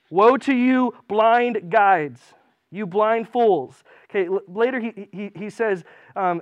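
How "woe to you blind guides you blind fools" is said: loud, slow proclaiming curse; loud preacher's woe; loud rebuke. Acted. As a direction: hurl it at the crowd. Reading Jesus' rebuke.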